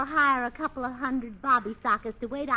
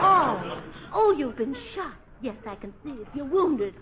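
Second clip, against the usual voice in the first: mock alarm. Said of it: "run the entire gamut of emotions".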